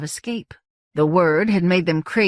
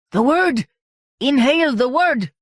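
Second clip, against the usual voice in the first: louder insistent call; urgent call; 7 semitones higher, 4 dB louder than usual. A narrator's reading. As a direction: urge her to breathe it in. Malingo urging over din.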